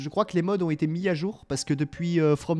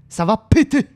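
"péter" said louder and higher, rising; louder repeat; 3 semitones higher, 8 dB louder than usual. Real, not acted. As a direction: repeat it with more punch on "péter".

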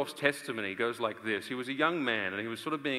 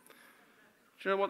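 ordinary delivery

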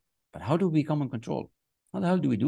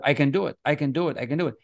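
bright repeated I can do it, pitched up a little; upbeat affirmation; 3 semitones higher, faster than usual. Shown as a demonstration. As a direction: say it like you mean it each time. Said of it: "And I tell myself".

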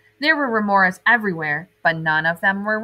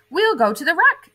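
high, louder promising lilt; excited mom; 10 semitones higher, 4 dB louder than usual. Acted. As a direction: tempt him with a treat. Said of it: "said Mom".

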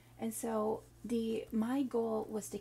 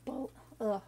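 frustrated ugh at a stumbled word. Real, not acted. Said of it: "I can't even say it".

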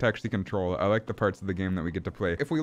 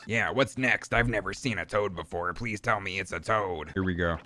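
minion fan, awed; 2 semitones lower, 4 dB quieter than usual. Acted.

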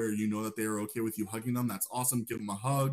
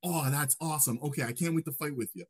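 fast, high, bubbly greeting; excited greeting; 5 semitones higher, faster than usual. Retold or imitated. Player greeting a Druid teammate, fast and thrilled. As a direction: burst in thrilled about their Druid. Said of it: "Or you can be like".

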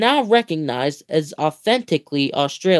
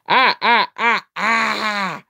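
evocative kookaburra call; 3 semitones higher, slower than usual. Retold or imitated. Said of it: "concludes with a wonderfully long and evocative".

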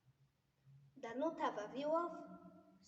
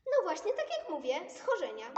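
Pippi voice; 6 semitones higher, 10 dB louder than usual. Acted. Pipi voiced, loud.

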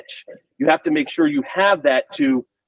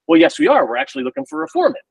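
employer's reply; 9 semitones higher, 3 dB louder, faster than usual. Retold or imitated. Voicing the employer.

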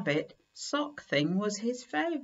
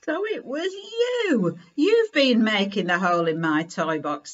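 surprised realisation; 4 dB louder than usual. Acted. Kipper catching the mice, surprised. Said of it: "said Kipper".

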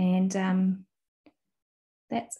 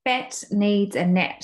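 slow reading aloud; slower than usual. Shown as a demonstration. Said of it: "you can sound out the words".

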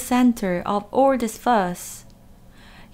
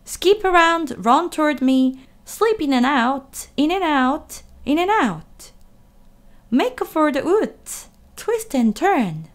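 high, loud bossy goose commands; goose giving orders; 6 semitones higher, 4 dB louder than usual. A narrator's reading. Goose commanding Wilbur to flee, high and loud. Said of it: "began to give orders".

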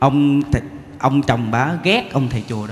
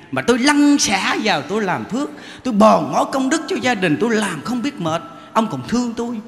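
a wife justifying herself to her husband; mock indignant wife; 6 semitones higher than usual. Wife defending her temple visits to husband, mildly indignant.

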